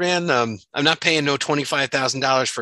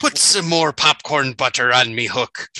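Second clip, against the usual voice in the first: pirate voice; slower than usual. Pretend. Pirate joke, slow.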